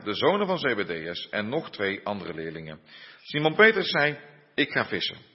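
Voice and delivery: measured Bible reading aloud; scripture reading. Acted. Preacher reads John's Gospel to the congregation, measured scripture reading. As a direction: read the Gospel story evenly, with pauses between phrases.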